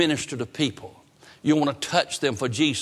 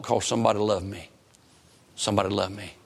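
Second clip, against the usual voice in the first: lower, quieter reflective voice; tender realization; 6 semitones lower, 3 dB quieter, faster than usual. Retold or imitated. Preacher recalls realizing why he was blessed, tender. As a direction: let it settle low and gentle.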